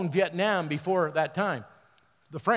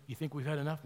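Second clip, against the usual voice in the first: hushed, softer aside; retold whisper; 7 dB quieter, faster than usual. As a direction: confide it quietly, imitating a conspirator. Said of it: "whispers to me".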